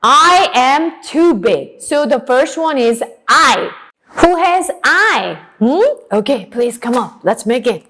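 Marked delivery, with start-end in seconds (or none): 0.0-1.8 cow voice. Acted. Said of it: "The cow said".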